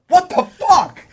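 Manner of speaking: loud, high shocked shout; retold yell. Moviegoer retelling a shock in the cinema, loud high yell. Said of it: "I out loud yelled".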